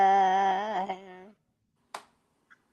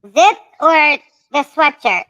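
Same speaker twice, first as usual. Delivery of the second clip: calling out; 6 semitones higher, 9 dB louder, slower than usual. Real, not acted. Calling question across room.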